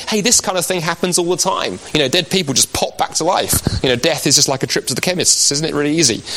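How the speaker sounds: high, sarcastic mocking of a sceptic. Speaker to an audience, mocking how sceptics see resurrection, sarcastic. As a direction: mockingly voice a dismissive doubter.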